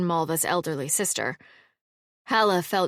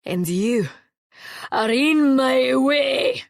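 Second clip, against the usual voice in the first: slow, loud and higher shout; wall-shaking roar; 6 semitones higher, 6 dB louder, much slower than usual. A narrator's reading. Sarkis threatening Alvar on the staircase, roaring. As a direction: blast him off the stairs. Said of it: "in a voice loud enough to shake the walls".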